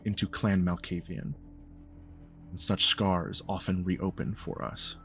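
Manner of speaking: measured, deliberate elder speaking with grave restraint; lightly voiced formal patriarch; stern, formal patriarch. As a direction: pronounce it like a solemn, disappointed father. GM speaks as Ulysses.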